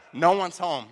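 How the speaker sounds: very loud, gleeful announcement; triumphant shout. Retold or imitated. Preacher retells second empty house, triumphant shout. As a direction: belt it out in mock triumph.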